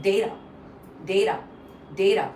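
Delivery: DAY-da, first part of data stressed; first-syllable stress. Shown as a demonstration. Teacher drills the stress for learners, first part strong. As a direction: punch the opening of data, light tapped second part. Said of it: "the first part is stress".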